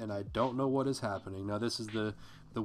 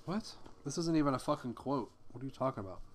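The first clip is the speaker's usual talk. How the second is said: baffled aside; 3 semitones higher, faster than usual. Real, not acted. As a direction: caught off guard by the page. Aside, baffled by his own notes.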